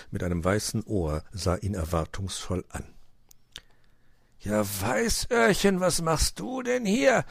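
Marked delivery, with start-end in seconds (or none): 4.4-7.2 higher-pitched, surprised question; lifted, astonished storybook voice. A narrator's reading. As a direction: greet an unexpected visitor in surprise. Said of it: "fragte er überrascht".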